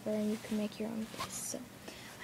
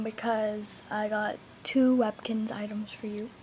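whispering; slower than usual. Real, not acted. Whispering to camera.

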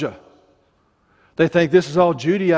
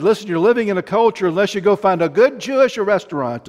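attempted Jewish accent; faster than usual. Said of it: "I'm trying to sound Jewish".

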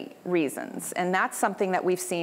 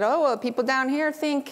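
put-on Southern accent; 5 semitones higher than usual. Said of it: "I'm trying to do my Southern accent".

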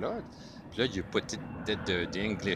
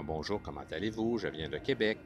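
Québécois French accent; 2 semitones lower, faster than usual. Shown as a demonstration. Showing how someone from Québec says hello, Québécois accent. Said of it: "on parle un peu comme ça".

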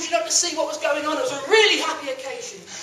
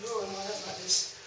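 frightened; 4 semitones lower, 11 dB quieter than usual. Acted. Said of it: "he was quite frightened".

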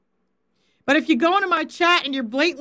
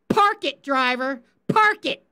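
crew chief order. Retold or imitated. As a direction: bark it like a crew chief on the radio. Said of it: "you know what they do".

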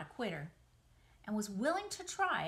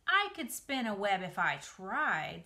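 boasting; 5 dB louder than usual. Acted.

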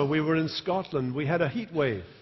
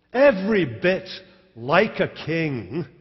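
slow, scornful like a king; mock him with each word; wife taunting the king, scornful; 2 semitones higher, 5 dB louder, slower than usual. Michal mocking David.

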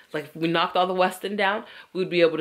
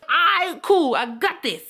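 sarcastic resolve; 9 semitones higher, 3 dB louder, slower than usual. Retold or imitated. Resigned self pep talk.

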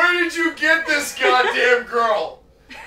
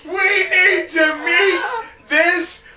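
excited laughing shout; 4 semitones higher, slower than usual. Real, not acted. Friend shouting gleefully about the stranger.

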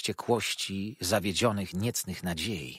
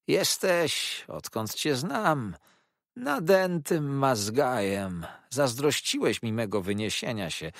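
a cornered schemer lashing out; unctuous villain turned spiteful; Uriah Heep; 4 semitones higher than usual. Acted. Uriah's furious outburst.

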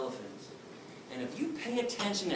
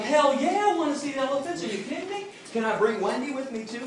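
much higher, eager and pumped; excited; 10 semitones higher, 5 dB louder than usual. Retold or imitated. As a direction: gush like a kid invited backstage. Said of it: "I'm like".

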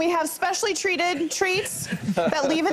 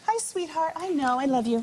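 soothing a scared dog; 3 semitones higher than usual. Real, not acted. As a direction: coo gently to calm the dog. Vet soothing dog during brushing.

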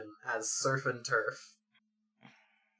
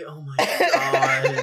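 surprised; 2 semitones lower, 5 dB louder, much slower than usual. Real, not acted. Shocked at recording time.

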